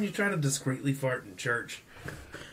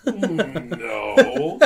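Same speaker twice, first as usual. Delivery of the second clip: laughing; 10 semitones higher, 7 dB louder than usual. Retold or imitated. Repeating the quote, laughing.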